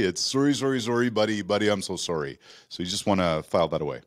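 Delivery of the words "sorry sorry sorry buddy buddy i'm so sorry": mock-profuse Canadian apology. Host imitating a really sorry Canadian, mock-profuse apology. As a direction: pile on the apologies like an over-polite Canadian. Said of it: "if they're really sorry".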